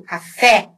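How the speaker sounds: "café" with open final é; Portuguese open e. Shown as a demonstration. Teacher recapping Portuguese, open final é. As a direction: open the end of "café", as in "pet".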